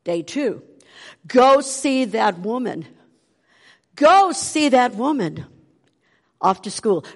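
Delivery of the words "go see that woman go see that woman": slow, pressing repeat of Go see that woman; insistent inner voice. Retold or imitated. The inner voice urging her to visit. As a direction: lean on the command each time. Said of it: "What was this voice telling me".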